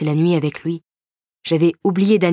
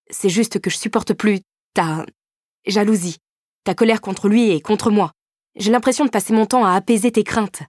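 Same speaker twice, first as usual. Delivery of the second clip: rising higher and louder with frustration; pitched-up, fed-up plea to a jealous boyfriend; exasperated outburst; 5 semitones higher, 4 dB louder than usual. Acted. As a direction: let the exasperation climb line by line. Heroine lashing out at boyfriend.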